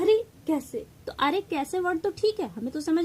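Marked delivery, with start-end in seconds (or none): 0.0-0.9 higher-pitched, surprised question. Shown as a demonstration. Teacher showing the exclamation mark's feeling, surprised. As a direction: act out mild astonishment. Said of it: "भावों से तो स्पष्ट है कि वो आश्चर्यचकित है".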